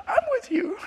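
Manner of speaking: hushed, tender whisper of comfort; still small voice. Retold or imitated. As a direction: breathe it gently like a still small voice. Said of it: "the still small voice said".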